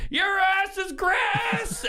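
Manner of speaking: high, slow, drawn-out yell; angry dad shout. Retold or imitated. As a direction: bellow it like a furious father catching a bully. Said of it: "he goes".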